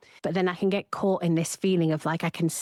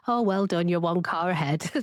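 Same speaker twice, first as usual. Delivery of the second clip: deadpan. Retold or imitated. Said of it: "He'd just go in a really deadpan tone".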